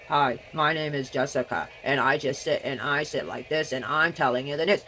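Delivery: half-hearted newsreader parody; mock boring newsreader. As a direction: play a stiff, dull news anchor, barely moved from own voice. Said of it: "If I just sit here and do this, it's boring".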